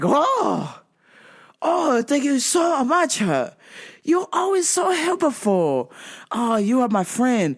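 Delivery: delighted customer in a mock Asian accent; super happy Asian accent. Happy customer thanking clerk, hammed-up Asian accent. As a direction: gush thanks in Asian-accented broken English. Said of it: "super happy".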